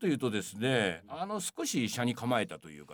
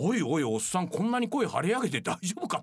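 mock-concerned jab, pitched up; alarmed teasing; 6 semitones higher than usual. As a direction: call out in half-joking disbelief. 演者を心配する内心のツッコミ. (心配まじりのツッコミ口調で、高めに)

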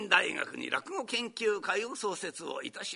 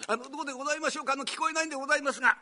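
higher, fast pleading patient voice; 6 semitones higher, much faster than usual. Retold or imitated. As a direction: beg the doctor to speak up. Patient can't hear doctor.

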